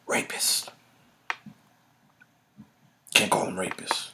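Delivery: very soft, near-whispered forbidden word; hushed whisper. Real, not acted. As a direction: drop right down as if it mustn't be said.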